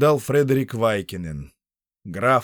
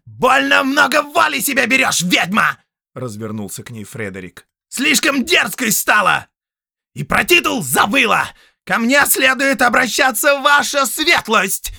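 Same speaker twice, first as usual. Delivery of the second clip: loud, much higher rant; furious shout; 7 dB louder than usual. Acted. Count shouting at the sorceress, furious. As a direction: put her in her place.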